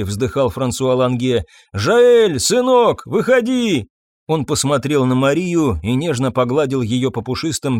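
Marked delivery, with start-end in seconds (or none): 1.7-3.9 loud high call into the forest; old man shouting for his son. A narrator's reading. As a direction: call the boy out of hiding. Old priest calls into the woods.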